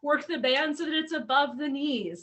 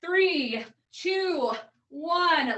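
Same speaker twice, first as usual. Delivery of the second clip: hype coach call; 4 dB louder than usual. Real, not acted. Coach starts workout countdown.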